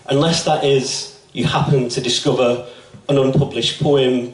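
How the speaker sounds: measured poem reading with deliberate pauses between phrases; poetry recitation. Acted. Poet reads a love poem to an audience, measured recitation. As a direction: recite it line by line, letting the line endings land.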